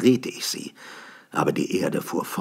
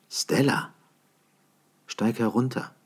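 higher woman's voice calling down; lightly voiced woman calling; 5 semitones higher than usual. A narrator's reading. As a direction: call her down from the stones. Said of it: "rief sie".

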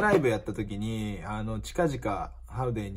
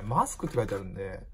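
normal talking voice

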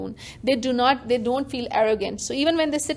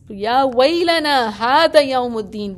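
louder half-acted wail of despair; mild mock lament, louder; mock despairing cry; 6 dB louder than usual. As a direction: cry it out as a lost soul on judgment day. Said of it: "I would like to scream and cry".

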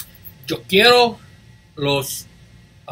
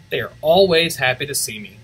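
ordinary delivery, nothing marked

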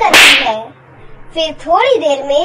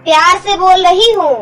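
louder-edged stepmother's warning; mild threat; 4 dB louder than usual. Acted. Stepmother demanding the dress for her daughter, mildly threatening. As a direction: warn the girl with mild menace.

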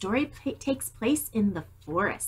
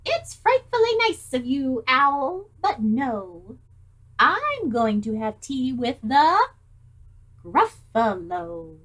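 a touch of a prim little mouse, a bit louder; polite mouse; 3 semitones higher, 5 dB louder, slower than usual. Acted. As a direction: refuse the owl with fake sweetness. Mouse declines the owl.

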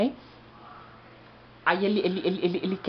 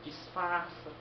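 quiet aside; 9 dB quieter, much slower than usual. Acted. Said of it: "O pessoal tudo lá animado".

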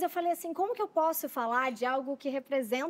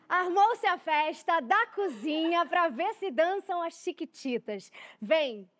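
heartfelt recitation; 2 semitones higher than usual. Acted. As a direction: declaim gently to old friends. Host recites memorized song text.

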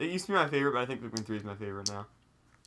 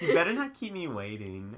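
flirtatious voice. Acted. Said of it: "a flirtatious voice".

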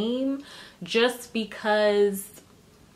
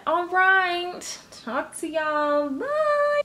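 cheery sign-off; 8 semitones higher, much slower than usual. Real, not acted. Vlog sign-off.

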